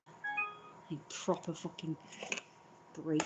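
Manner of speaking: weary whisper. Real, not acted. Exhausted venting, drops to whisper.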